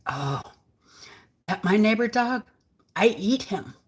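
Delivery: mock Asian-accented broken English; imitated Asian accent. Server replying about the neighbor's dog, imitated Asian accent. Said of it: "She had the accent".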